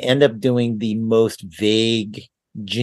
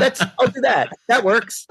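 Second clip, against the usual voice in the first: voice actor's inner thoughts; 10 semitones higher than usual. Retold or imitated. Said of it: "You know, like".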